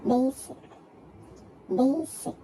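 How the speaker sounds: "Basic" firmly, in two distinct beats; syllable by syllable. Shown as a demonstration. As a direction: mark both syllables of "Basic". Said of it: "two syllables".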